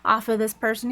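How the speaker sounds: imitating casual shop talk; lightly acted breezy indifference; nonchalant.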